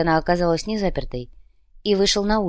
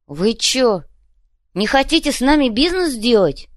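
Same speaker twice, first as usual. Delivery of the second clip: higher and louder, shocked thug; genuinely shocked, high; stunned gangster; stunned question; 6 semitones higher, 4 dB louder than usual. A narrator's reading. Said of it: "ошарашенно поинтересовался Копыта".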